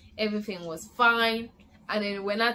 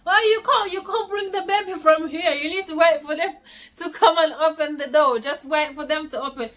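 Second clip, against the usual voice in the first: alarmed urging; 4 semitones higher than usual. Retold or imitated. Husband at the hospital door urging her not to push, alarmed. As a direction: hurry to stop her, half laughing. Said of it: "My husband was telling me".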